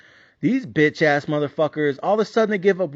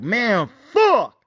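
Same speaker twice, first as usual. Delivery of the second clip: a half-hammed frustrated yell at the TV; retold cursing at the TV; mock angry outburst; 5 semitones higher, 4 dB louder than usual. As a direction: curse out the game, a touch loud. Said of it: "I was like".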